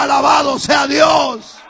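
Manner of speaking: high, slow, full-voiced shout of praise. Real, not acted. Preacher shouts praise to the congregation, high and slow. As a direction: cry it out to the whole hall.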